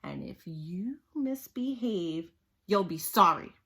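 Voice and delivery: Miss Swamp threatening the class; stern threat. Acted. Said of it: "said Miss Swamp".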